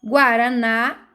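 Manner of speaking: slow Guaraná with a long NÁ; teacher's demo, Guaraná stressed at the end; stressed last syllable. Shown as a demonstration. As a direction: draw out the final NÁ of Guaraná. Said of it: "a sílaba forte é na".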